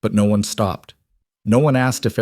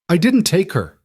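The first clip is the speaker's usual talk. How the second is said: higher, louder panicked denial; 10 semitones higher, 3 dB louder than usual. A narrator's reading. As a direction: blurt it out in panic. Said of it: "Noah's voice came out louder".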